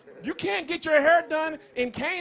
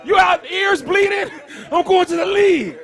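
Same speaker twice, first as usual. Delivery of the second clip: louder, higher hammed-up sports dad shouting; mock coach dad yell; 4 semitones higher, 7 dB louder than usual. Sideline dad yelling at his son during games, mock shout. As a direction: bark at the kid like a sideline dad. Mocking fathers yelling at hooping sons.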